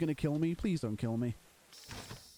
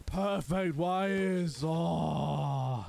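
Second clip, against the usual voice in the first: celebratory; much slower than usual. Real, not acted. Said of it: "celebratory perfect wires".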